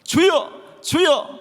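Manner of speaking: high, slow cry of protest to God; acted, drawn-out high outcry. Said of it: "하나님께 목소리를 높였을 거예요".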